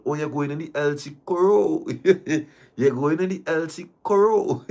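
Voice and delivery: high voice breaking into giggles; words squeezed out while cracking up; real laughing. Real, not acted. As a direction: tease through helpless laughter.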